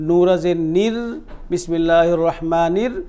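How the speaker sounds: "নির" with a light, thin final r. Shown as a demonstration. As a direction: end "নির" on a fine trilled r, no rounding. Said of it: "চিকন করে উচ্চারণ ক-, করব". ("নির"-এর রা চিকন করে)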